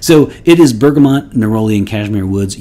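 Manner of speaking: mock British accent reading bergamot and neroli. Shown as a demonstration. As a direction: say the notes like a proper British gent. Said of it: "you have to say it with a British accent".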